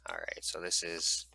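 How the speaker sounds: dry-mouthed, sticky speech. Real, not acted. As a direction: talk with a parched mouth. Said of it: "had a dry mouth moment there".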